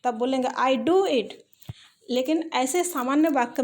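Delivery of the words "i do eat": "do" hit harder than plain talk; stress on DO. Shown as a demonstration. Teacher insisting she does eat, stressing "do". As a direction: lean on "do" in "I do eat". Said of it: "तब जोर देके बोलेंगे।".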